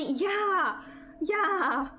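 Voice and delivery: excited. Acted. Excited agreement, cry heard.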